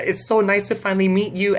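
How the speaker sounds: high, controlled retold greeting; held-together fan hello; calm greeting. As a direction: keep it composed but pitched high. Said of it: "I was really calm".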